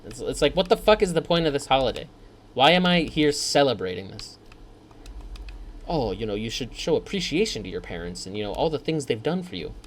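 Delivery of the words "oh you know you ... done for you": softer, lecturing mock voice; prissy lecture to ungrateful kids; preachy advice giver. Nagging voice telling kids to thank parents, softer.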